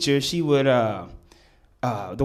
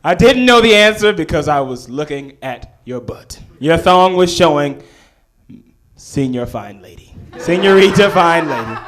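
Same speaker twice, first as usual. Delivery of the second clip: bold retort; 2 semitones higher, 6 dB louder than usual. Retold or imitated. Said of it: "I stood up with all the gumption".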